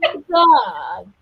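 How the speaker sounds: high mock-cute words through barely moving lips; through gritted teeth. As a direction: squeeze it out through clenched teeth, mouth barely open. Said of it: "she talks to her teeth like".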